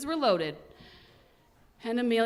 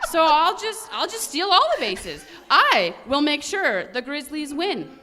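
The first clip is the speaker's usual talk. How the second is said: higher, louder words with laughter through them; laughing; 5 semitones higher, 8 dB louder than usual. Acted. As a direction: giggle through the clever plan. Amelia giggles at her plan.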